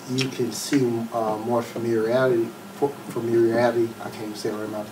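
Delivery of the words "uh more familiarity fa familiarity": real stumble over "familiarity"; tongue-tied. Real, not acted. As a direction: trip on the word and try it once more. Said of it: "tongue tied".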